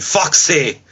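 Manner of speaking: slow, drawn-out catchphrase impression; put-on voice, stretching out the announcement; Wade Barrett. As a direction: imitate a wrestler delivering his catchphrase. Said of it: "ended the relationship by saying".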